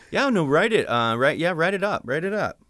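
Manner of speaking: high, hasty, noncommittal approval; imitated brush-off. Writer imitating colleagues' reaction to a pitch, noncommittally agreeable. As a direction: wave the idea away with agreement. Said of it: "give you the reaction that they gave me back".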